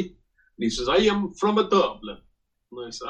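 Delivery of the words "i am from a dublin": high, lilting mock Italian accent; hammed-up Italian-accented English. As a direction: imitate an Italian claiming to be a local. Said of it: "uh, Italian guy".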